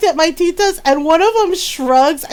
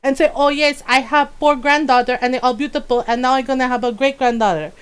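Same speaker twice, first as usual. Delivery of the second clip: put-on grandmother's accented English. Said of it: "Just like".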